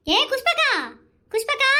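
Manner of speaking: rising, sing-out hail to a friend; calling out. Acted. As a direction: call to a neighbour, lifting the ends. Calling out to a neighbour. (கூப்பிடும் குரல்)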